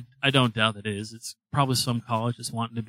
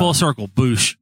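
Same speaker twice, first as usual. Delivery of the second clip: triumphant shout; 7 dB louder, slower than usual. Real, not acted. Triumphant joke punchline.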